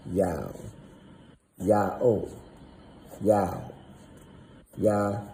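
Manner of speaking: Yao said four times, short and level; repeated sound demo. Shown as a demonstration. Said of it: "this is how it's".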